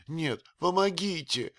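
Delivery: high frightened cry for помогите; cry for help. A narrator's reading. Old nurse calling помогите in fright. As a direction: call помогите, already high. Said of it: "закричала от страха".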